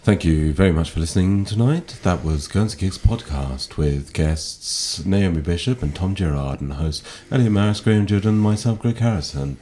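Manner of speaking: late-night radio voice. Pretend. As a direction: croon the goodbye like a night-time DJ. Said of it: "That was very, like, nighttime variety".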